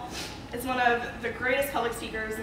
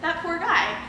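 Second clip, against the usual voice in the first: higher, louder mock disbelief; indignant coworker; 3 semitones higher, 3 dB louder than usual. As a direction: play the scandalized coworker scolding a friend. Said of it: "she looks at me and goes".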